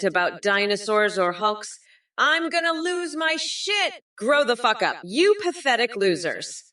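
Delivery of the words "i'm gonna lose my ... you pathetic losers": shouted, pitch jumping high; angry outburst. Real, not acted. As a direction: blow up at the whole chat. Ranting at chat, losing temper.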